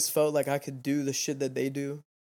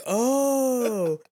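high, louder mock surprised "Oh"; 10 semitones higher, 5 dB louder than usual. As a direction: play the startled Walmart lady. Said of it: "And she's like".

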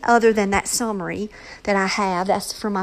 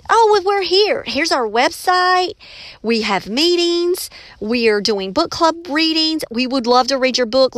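raised, eager pitch, slowing on the offer; eager student; 5 semitones higher than usual. Retold or imitated. Student inviting the author to her club, eager. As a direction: sell the club with bubbly enthusiasm.

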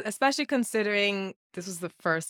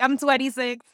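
quoted through laughter, higher-pitched; laughing imitation; 5 semitones higher, 3 dB louder than usual. Host quoting a terrified man's age, laughing. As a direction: crack up while giving his answer. First take of his age reply.

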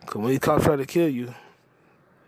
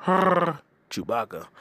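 mock Chewbacca; 2 semitones higher, much slower than usual. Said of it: "What's your name".

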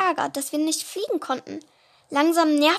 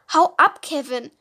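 snapping loudly Hau ab, Kevin; irritated shout; 6 dB louder than usual. Acted. Shadow tells cousin Kevin to leave, loud and irritated. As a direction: drive the cousin off, annoyed. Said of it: "rief Shadow gereizt".

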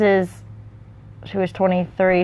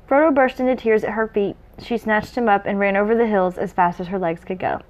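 measured read-aloud narration; story narration; 3 semitones higher than usual. A narrator's reading.

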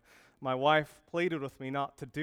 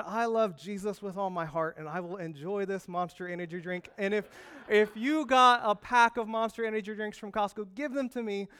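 higher and louder, boldly defiant; defiant declaration; 6 semitones higher, 3 dB louder than usual. Retold or imitated. Pastor answering his coworker with cheerful defiance. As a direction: proclaim it like a rallying cry. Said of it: "And I said".

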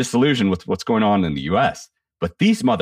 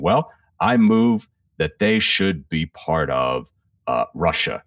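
slow, halting mock bumble; bumbling official; slower than usual. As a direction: stumble through it like a flustered bureaucrat. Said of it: "he's bumbling along when he says it".

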